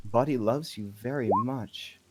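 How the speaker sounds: lightly voiced woman, lingering pauses between lines; a hint of an eerie lady character; odd woman's role. Woman speaking for the doll Buddy, lightly voiced odd lady. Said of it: "And she says".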